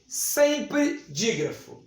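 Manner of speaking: sempre slowed and stressed; emphatic stress. Shown as a demonstration. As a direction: drag out sempre to stress the rule. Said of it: "stressed rule". (ênfase lenta em sempre)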